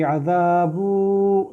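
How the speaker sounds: अज़ाबु with the vowel stretched too long, a wrong example; overlong vowel. Shown as a demonstration. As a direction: drag out अज़ाबु too much on purpose. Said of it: "इसको लंबा नहीं करना बहुत ज़्यादा".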